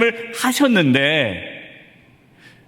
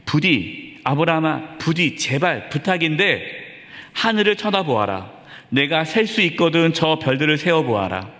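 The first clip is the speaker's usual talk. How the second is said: gentle pleading. Retold or imitated. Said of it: "하나님께서 이렇게 말씀하시는 거예요".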